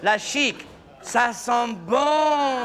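shouted, slow mocking cry. Daughter praising the fiancé's perfume, mock shouted. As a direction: bellow it, drawn out.

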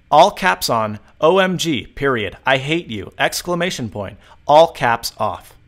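slow, deliberate dictation. Shown as a demonstration. Tutor demonstrating dictation to phone, deliberate. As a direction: read each word clearly for the machine. Dictating all caps example.

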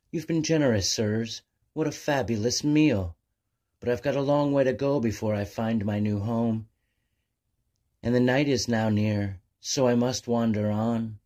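light, bright albatross gushing over the meal; grateful young bird. Acted.

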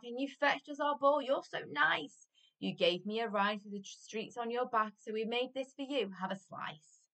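lightly acted shout of a grateful boy; eager calling out. A narrator's reading. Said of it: "shouted Jack".

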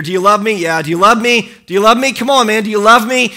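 pushy, insistent mock plea; half-exasperated imitation of pleading; mock begging. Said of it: "Like he's begging Simon to love him".

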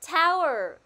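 "Tower" very loud and high on the first syllable; stress on first syllable. Shown as a demonstration. Teacher cueing everyone to repeat, emphatic "Tower". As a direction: hit the start of "Tower" hard. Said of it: "cô nhấn mạnh vào âm tiết là tower".

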